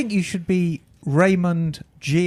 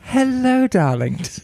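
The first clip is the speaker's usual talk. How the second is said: campy drag queen; slower than usual. Acted. Emma's grand intro to podcast.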